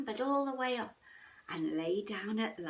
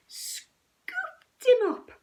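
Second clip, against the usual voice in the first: slow lift; 9 dB louder, much slower than usual. A narrator's reading. Big paw lifting the cub.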